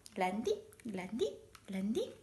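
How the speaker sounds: little separate rising sounds; imitated droppings. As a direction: mimic small droppings falling one at a time. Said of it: "Io la faccio così". (versetti imitati in salita)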